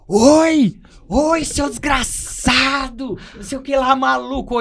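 high, mocking drill-sergeant yell; officer yelling. Sergeant screaming at a recruit, mock furious yell. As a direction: bark it like an angry officer. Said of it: "dando uns gritos".

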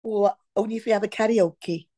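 playful put-on Welsh accent; lilting imitation of a Welsh accent. Shown as a demonstration. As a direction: answer in mock Welsh. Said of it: "Can you do Welsh?".

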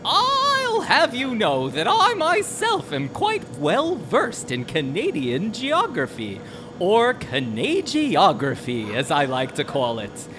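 put-on rambling old man telling a tale; grandpa storytelling. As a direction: reminisce like a chatty grandpa. Old doctor rambles about Oak Island.

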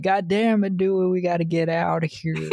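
squeaky mock panic with a laugh; high mock voice. Imitating Tatum urging Dewey to leave, high and laughing. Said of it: "But she's like".

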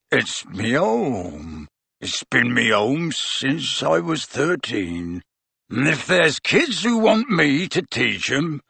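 slow, weeping giant voice; choked up, slow and broken; tearful gruff giant. A narrator's reading. Hagrid weeping.

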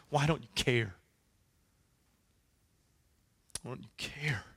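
plea dropping to a whispered ache; fading to a whisper. Acted. Job asking his friends why they don't care, fading to a whisper. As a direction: let the plea die into a whisper.

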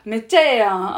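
loud gushing Osaka auntie; loud nosy osaka auntie. Retold or imitated. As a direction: gush with nosy delight. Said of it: "おばちゃんが".

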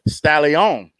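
drawn-out stage introduction; strip-club announcer. Acted. Announcer calling the new stripper to the stage, strip-club announcer.

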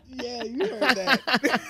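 laughing while talking. Real, not acted. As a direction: chuckle through it. Laughing reaction.

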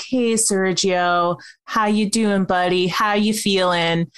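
slow, gentle check-in. Retold or imitated. Tony greeting Sergio after letting him in, gently. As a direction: ease into it kindly, unhurried. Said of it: "Tony very gently is like".

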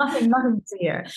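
lightly put-on breezy brush-off; mock nothing-to-see-here. To the listeners, jokingly covering up her tears, breezy brush-off. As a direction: wave it away like a bystander cop.

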